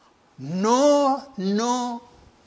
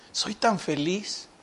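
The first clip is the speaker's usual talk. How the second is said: slow, flat-hearted and softer; joyless mock cheer; 3 semitones lower, 5 dB quieter, slower than usual. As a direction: say you are happy with no joy at all. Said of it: "¿Nos oyen con entusiasmo?".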